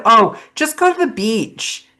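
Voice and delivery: high, airy imitation of a friend's advice; mock breezy advice. Mimicking a friend's carefree beach advice, high and quick. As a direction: toss it off lightly, pitched high and quick. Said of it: "And she said".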